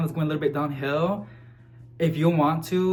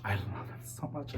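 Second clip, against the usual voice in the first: "I love them so much" nearly breathed, much softer and lower; hushed; 8 semitones lower, 15 dB quieter than usual. Real, not acted. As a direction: say it again as a soft, intimate aside to yourself. Repeats it, dropping almost to nothing.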